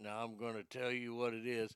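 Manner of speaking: put-on hushed, murmured Texas accent. Imitating Doctor Phil's Texas accent: Doctor Phil Texas accent. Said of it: "that Texas accent".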